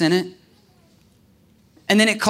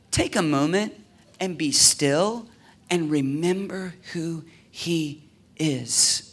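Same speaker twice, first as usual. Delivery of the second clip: softer, lower, gentle preaching; quiet reflection; 3 semitones lower, 5 dB quieter than usual. Acted. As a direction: draw them into stillness.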